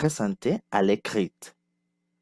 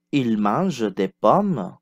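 slow model repeat; slower than usual. Shown as a demonstration. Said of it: "Répétez".

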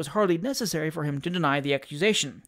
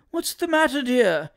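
anxious father; 7 semitones higher, 4 dB louder than usual. A narrator's reading. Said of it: "inquired the father once more".

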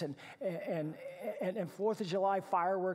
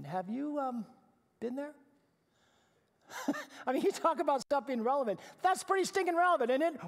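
excited; 8 semitones higher, 6 dB louder than usual. Real, not acted. Preacher's burst of energy.

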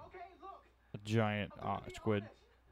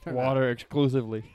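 laughing; 3 semitones higher, 10 dB louder than usual. Real, not acted. Joking reply amid shared laughter.

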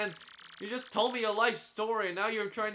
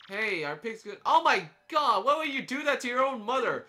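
mock outraged scolding; 2 semitones higher, 4 dB louder than usual. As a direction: tell off the kid in mock horror. Scolding a game child.

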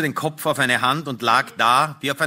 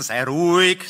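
higher, urgent command to calm; agitated hushing; 4 semitones higher, 3 dB louder than usual. Acted. Husband quieting his lamenting wife, agitated raised voice. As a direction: hush her while agitated yourself.

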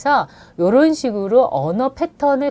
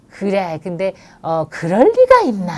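comforting. Shown as a demonstration. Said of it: "위로를 해주셔야 돼".

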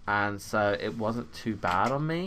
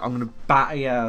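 mock threat; 5 dB louder than usual. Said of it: "the traditional insult is like".

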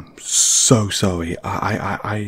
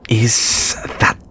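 curt, lower telling-off with sharp bursts; snappy; 4 semitones lower than usual. Acted. Telling the unwanted flatmate off, snappy. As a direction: snap it at them, no softness. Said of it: "that was snappy".

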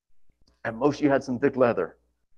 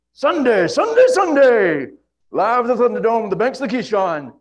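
monster truck announcer; 8 semitones higher, 7 dB louder than usual. Pretend. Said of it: "those old, uh, drag race commercials or monster truck commercials".

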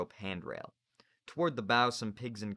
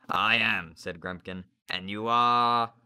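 haughty teacher; 8 dB louder, slower than usual. Acted. Narrator voices Grumpkin.

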